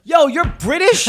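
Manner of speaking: loud, high, slow disbelief; hammed-up stunned question; retold astonishment. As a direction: blurt it out in mock shock. Retold shock at Idris Elba's accent.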